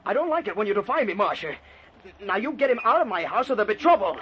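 stern, rising threat; angry warning. Acted. Husband ordering his wife about Ted, angry. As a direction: warn the wife with mounting anger.

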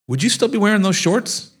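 high, laughing through the words; laughing question. Real, not acted. Asking Kingston about the shorts, laughing. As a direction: tease him while cracking up.

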